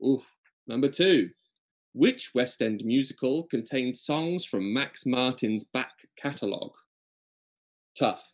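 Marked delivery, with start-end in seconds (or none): 1.9-6.7 slow, deliberate quizmaster repeat; measured quiz host reading; quiz question read-out. Acted. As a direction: lay the question out slowly for the players.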